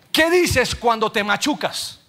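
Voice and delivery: slow, drawn-out question stressing dices. Shown as a demonstration. Preacher quizzing congregation, slow and drawn out. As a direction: asks the crowd slowly, leaning on dices. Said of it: "No lo piense, dígalo".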